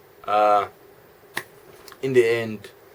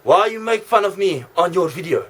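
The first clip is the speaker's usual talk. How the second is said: put-on Russian accent; 5 semitones higher than usual. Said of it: "a Russian accent".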